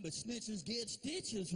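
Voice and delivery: slow, drawn-out warning; mock threat. Dad slowly repeating the son's threat back to him. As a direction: stretch it out as payback.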